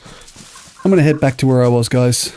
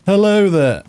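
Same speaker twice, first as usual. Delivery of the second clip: friendly voice; 8 semitones higher, slower than usual. Shown as a demonstration. Testing the mic on a stranger, high cheery hello. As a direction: sing the greeting out up high. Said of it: "That's my friendly voice".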